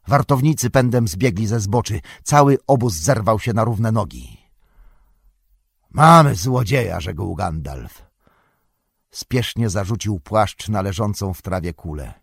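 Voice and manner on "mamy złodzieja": sudden loud, raised cry; raised-voice alarm over a thief; shout of alarm. A narrator's reading. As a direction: call out sharply to rouse others.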